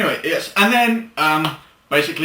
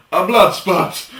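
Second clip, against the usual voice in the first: laughing tease; 3 semitones higher, 5 dB louder, much slower than usual. Real, not acted. Teasing the slip.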